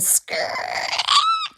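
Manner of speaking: long rasping stretch on the word; spooky onomatopoeic emphasis; scratchy word-painting. A narrator's reading. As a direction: drag it out like scraping claws. Word voiced as the sound it names.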